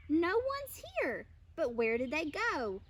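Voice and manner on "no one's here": mild cry out. A narrator's reading. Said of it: "Bear cries".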